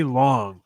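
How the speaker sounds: LONG with a slight lingering G at the end. Shown as a demonstration. Explaining the accent test to a friend, lingering on the G in "long". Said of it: "lingering on the G".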